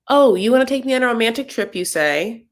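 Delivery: high mock-incredulous voice; mocking Kalani. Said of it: "She's like".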